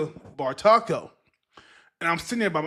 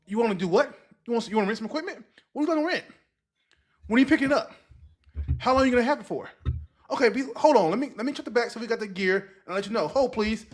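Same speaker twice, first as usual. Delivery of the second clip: higher, eager clerk voice on the phone; store clerk on phone; 4 semitones higher, faster than usual. Retold or imitated. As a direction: play the helpful shop assistant taking a call. Retells taking customer's call.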